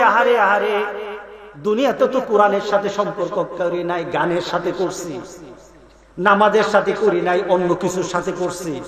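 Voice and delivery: lament. Acted. Dead man in his grave admits his sin, lamenting softly. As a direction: sigh it out like a lost soul.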